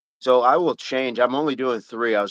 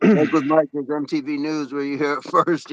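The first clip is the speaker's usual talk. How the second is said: 1950s narrator; 3 semitones higher than usual. Pretend. Mock news tagline.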